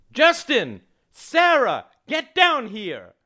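very high, drawn-out calling; urgent summons. A narrator's reading. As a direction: holler for the children upstairs. Mother summons children again.

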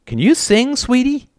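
high, eager question; suddenly perky and loud; brightened. A narrator's reading. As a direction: ask hopefully, pitch soaring. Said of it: "Then he brightened".

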